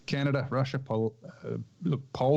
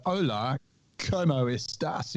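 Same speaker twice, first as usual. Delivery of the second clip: put-on Spanish greeting in a jokey English accent; lightly put-on English-accented Spanish; mock English accent Spanish; 3 semitones higher, slower than usual. Podcaster greeting co-hosts in mock English-accented Spanish. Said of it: "in my best Eng-, uh, English accent".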